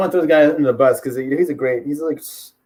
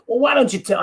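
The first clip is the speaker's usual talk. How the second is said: half-managed, higher interviewer imitation; the schmo; 7 semitones higher than usual. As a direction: attempt a silly interviewer's voice. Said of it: "I can't do the schmo".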